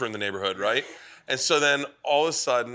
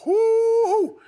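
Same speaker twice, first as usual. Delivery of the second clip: loud high whoop of delight; cheering woo; 7 dB louder than usual. Real, not acted. Friends cheering at the table, a loud high woo. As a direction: whoop it out, thrilled.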